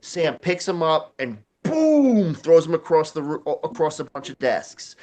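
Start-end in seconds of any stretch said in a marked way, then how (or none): 1.6-2.4 long, higher falling boom; imitated impact boom. Narrator sounds out a body thrown across desks, drawn-out boom. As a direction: draw out a booming sound effect.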